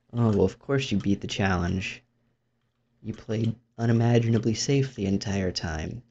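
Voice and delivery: smug viewer comment. Retold or imitated. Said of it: "Can't wait for the smug comment".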